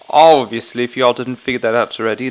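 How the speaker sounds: badly faked British accent; mock British voice. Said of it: "that was the worst British accent ever".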